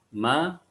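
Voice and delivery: "ma" with the mouth fully open; open fathah vowel. Shown as a demonstration. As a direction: open wide for a clear A in "ma". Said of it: "mulut kita, kita buka".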